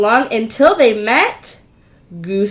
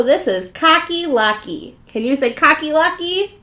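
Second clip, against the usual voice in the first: ordinary delivery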